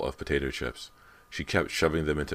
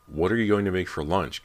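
higher, louder demand; 5 semitones higher, 5 dB louder than usual. A narrator's reading. Cody demands lunch plans, higher and louder. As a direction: press for an answer, loud. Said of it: "Cody demanded".

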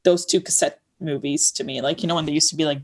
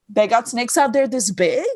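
bit line; 4 semitones higher than usual. Acted. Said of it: "in the bit I go".

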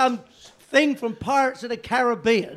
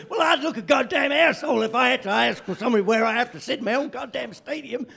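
a mild mock yell of the grumpy owner; mock indignant owner; 3 semitones higher than usual. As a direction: bluster like an offended American owner. Imitating owner's angry reply.

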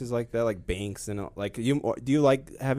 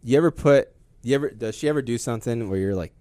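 ordinary talk, nothing marked

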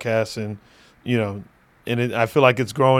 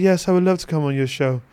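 a lightly put-on British accent; faster than usual. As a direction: answer as a gracious Brit, accent lightly attempted. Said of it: "That was my best British accent".

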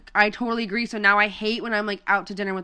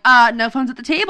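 louder, bossy table rule; hammed-up parent voice turned on mom; mock strict rule; 6 dB louder than usual. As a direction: lay down the law to mom, playfully. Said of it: "I'm like".

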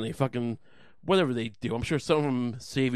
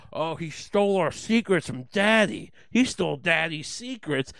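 mocking whine, a touch higher and louder; whiny mock quote; 4 semitones higher, 3 dB louder than usual. Comic mocking a government loyalist, whining. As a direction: whine it like a tattling child. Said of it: "where you go".

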